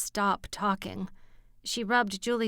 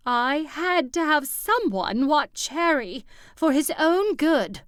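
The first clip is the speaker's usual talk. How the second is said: higher, louder, defensive insistence; rising pitch; 7 semitones higher, 7 dB louder than usual. Acted. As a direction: push the voice up high and loud. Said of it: "her voice rising in pitch".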